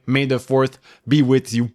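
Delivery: put-on thick Québécois accent on English. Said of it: "Avec un accent québécois terrible".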